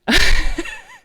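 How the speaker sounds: high, loud mock shriek; imitated tantrum shriek. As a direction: mimic a child's wordless outburst. Imitates the boy's tantrum noise.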